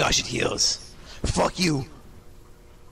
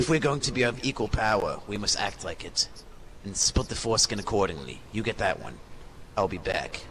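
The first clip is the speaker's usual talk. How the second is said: lordly master voice; 3 dB quieter than usual. Acted. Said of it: "from that voice".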